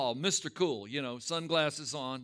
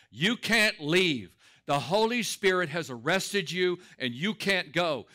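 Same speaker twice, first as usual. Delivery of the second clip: louder, slow, emphatic order; retold firm command; 5 dB louder, slower than usual. Preacher retelling his order to the young man leaving, commanding. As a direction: halt him with preacherly authority.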